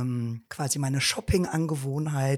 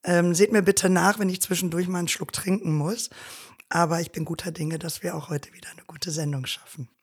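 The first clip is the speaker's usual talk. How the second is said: hoarse voice from inflamed vocal cords; husky and strained, fading to whisper; smoky voice. Real, not acted. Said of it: "machen das auch mit rauchiger Stimme".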